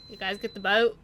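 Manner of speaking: brisk, curt question; hurried shipwright; very quickly. Acted. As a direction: shipwright briskly asking about the boat. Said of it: "very quickly is just".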